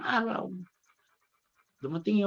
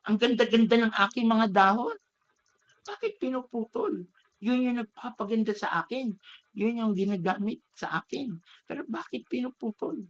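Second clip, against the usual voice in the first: higher, indignant questioning, lightly acted; mild mock outrage, raised pitch; angry bamboo; 4 semitones higher than usual. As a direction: demand why the leaves are cut, pitched up. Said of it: "Galit na galit pa rin siya".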